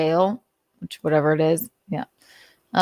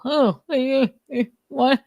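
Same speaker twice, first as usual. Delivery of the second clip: high, amused "what?"; squeaky startled laugh; laughing disbelief; 8 semitones higher than usual. Real, not acted. Shocked reaction.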